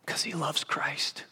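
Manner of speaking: hushed whisper. Acted. Preacher softly excusing Peter to the congregation, whispered. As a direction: say it softly, almost to yourself. Soft aside.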